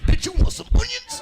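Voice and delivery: high, loud bickering wife; hammed-up wife yelling from the fridge; mock newlywed shout. Newlywed couple acted.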